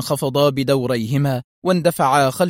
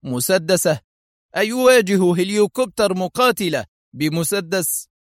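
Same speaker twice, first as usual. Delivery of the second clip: incredulous exclaim; 5 semitones higher than usual. Acted. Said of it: "هتف الرجل".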